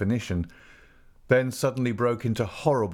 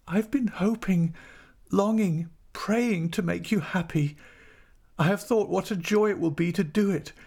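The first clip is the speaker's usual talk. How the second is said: high, earnest wifely plea; distraught, high-pitched confession of devotion; anguished pleading; 11 semitones higher than usual. A narrator's reading. Distraught wife pleads with husband.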